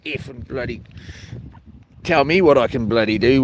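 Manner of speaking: usual speaking voice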